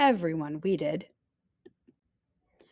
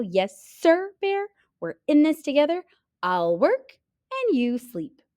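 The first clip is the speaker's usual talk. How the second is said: Hare higher, quick and persuasive, slowing at the end; sly salesman hare; 4 semitones higher than usual. Acted. Hare pitching deal to lazy bear, sly. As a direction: sell the deal with a wink.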